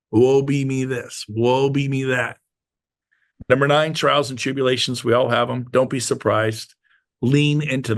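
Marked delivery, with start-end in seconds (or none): 0.1-2.4 slow, lightly hammed-up woe-is-me lament; mock self-pity. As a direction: sigh it out like a self-pitying victim, slowly. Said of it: "you're usually playing the victim".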